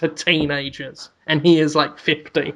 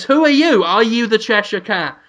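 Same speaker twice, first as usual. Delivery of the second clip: startled question; 4 semitones higher than usual. Acted. Bewildered owner meets talking cat.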